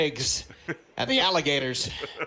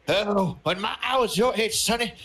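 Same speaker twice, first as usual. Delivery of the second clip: put-on higher, slow drawling Southern old-timer; old southern man; 5 semitones higher, slower than usual. Grandpa bragging to future grandkids, in a Southern old-man accent. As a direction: play a Southern grandpa reminiscing, a bit higher. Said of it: "I'm talking in a southern accent".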